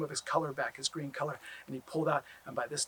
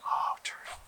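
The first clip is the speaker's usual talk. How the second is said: whispered grief. Acted. Finding Turtle lifeless.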